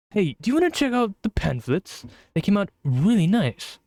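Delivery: put-on British accent. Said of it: "British accent?".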